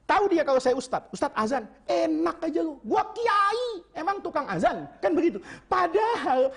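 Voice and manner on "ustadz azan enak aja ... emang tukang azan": arrogant cleric. Retold or imitated. Arrogant ustadz refuses to call azan.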